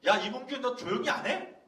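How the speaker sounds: loud scolding shout from the front; teacher's yell. Retold or imitated. Teacher shouting at the loud pupil, loud scolding yell. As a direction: bark it across the classroom like a fed-up teacher.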